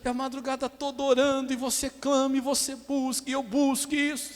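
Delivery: high-pitched mock complaining to the pastor; put-upon churchgoer's high lament; imitated lament. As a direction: plead your case in a high, pitiful voice. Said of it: "A pessoa se lamenta".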